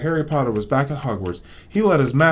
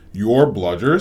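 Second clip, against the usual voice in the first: sharp louder question; rising anger; 5 dB louder, slower than usual. Acted. Boy confronting the elf about the bludger, angry. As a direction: demand what he means. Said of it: "anger rising once more".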